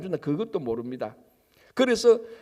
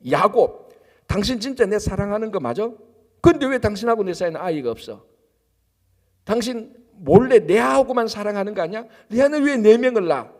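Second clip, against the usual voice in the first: Rachel nagging Jacob, louder and rising toward the end; jealous wife's complaint; 2 semitones higher, 6 dB louder than usual. Acted. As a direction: play the jealous wife demanding answers. (질투하는 아내의 큰 소리 추궁)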